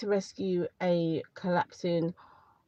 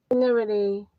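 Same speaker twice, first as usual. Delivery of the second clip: sudden whisper; 3 semitones higher, 7 dB louder than usual. Real, not acted. Whispered aside mid-sentence.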